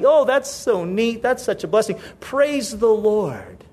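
put-on pleased congratulation; feigned happiness. Envious believer congratulating someone blessed, feigning happiness. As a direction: pretend to be glad, stretching the final praise. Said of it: "you act like you're happy".

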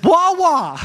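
put-on high, loud baby-talk wail; mock toddler crying out. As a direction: whine it like a little kid. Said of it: "He says".

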